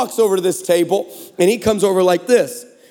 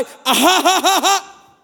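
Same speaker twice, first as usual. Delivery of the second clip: high cackling laugh at his own joke; real laughter; 9 semitones higher, slower than usual. Real, not acted. Preacher cracking up at his own story, laughing. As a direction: burst out laughing, pitched high.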